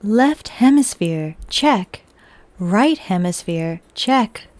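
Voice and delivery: slow, segmented system-check readout; robot voice. Pretend. Streamer runs a mock system check in a robot voice. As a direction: report each check like a computer. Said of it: "the robot voice".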